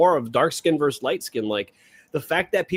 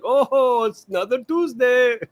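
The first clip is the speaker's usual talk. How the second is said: much higher and louder put-on voice, breezy; mock nonchalance; 10 semitones higher, 5 dB louder, slower than usual. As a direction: shrug off the blasts like a local. Voicing locals used to bombs.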